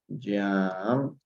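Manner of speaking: "Jump" drawn out as a model; pronunciation demo. Shown as a demonstration. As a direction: sound out "Jump" slowly as one long syllable. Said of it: "la pronunciación sería de la siguiente manera".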